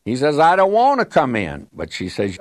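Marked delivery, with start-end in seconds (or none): 0.4-1.7 put-on higher, mildly raised whiny-child protest; mock child's cry, pitched up. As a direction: retell a little boy's wail, only half in earnest. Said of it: "he's just crying out the top of his voice".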